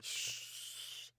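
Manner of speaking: conspiratorial whisper. Acted. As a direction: whisper it like a secret. Hushing about stealing books.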